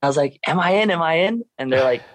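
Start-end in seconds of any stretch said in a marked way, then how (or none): 0.5-1.4 high-pitched, imitating urgent asking; pressing repeated question, pitched up; retold eager question. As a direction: re-enact an excited plea for news, voice lifted. Retelling anxious wait for qualification news.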